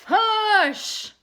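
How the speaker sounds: high, loud hush from the whole town; scolding hush. Acted. The whole town scolds the boy with a loud hush. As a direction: shush him firmly as a crowd. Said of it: "the whole town scolded".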